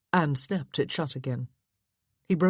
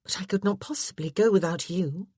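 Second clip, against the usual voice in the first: protesting wife; 3 semitones higher than usual. A narrator's reading.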